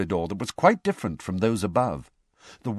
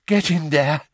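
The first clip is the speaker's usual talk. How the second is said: high, much louder gasping push; panting urge; 6 semitones higher, 5 dB louder than usual. A narrator's reading. Mr Weasley sending Harry in, panting hard. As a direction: force it out between breaths. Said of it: "he panted".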